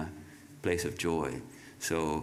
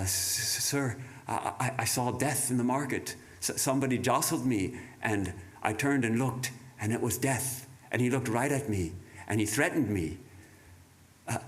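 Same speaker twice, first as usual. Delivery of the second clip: breathless frightened pleading, speeding up; frightened servant. Acted. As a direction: beg the master in panic, rushing at the end. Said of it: "white as a sheet and trem-, all a tremble".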